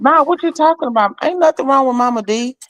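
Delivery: high, dismissive disbelief; disbelieving. Retold or imitated. Friend denying the death news, high incredulous brush-off. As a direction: brush it off, it can't be true.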